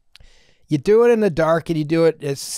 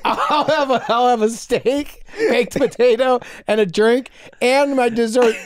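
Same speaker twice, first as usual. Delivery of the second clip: higher, laughing mock food order; acted-out greedy diner; 4 semitones higher than usual. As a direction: order it all with comic relish. Acts out double-order diner, laughing.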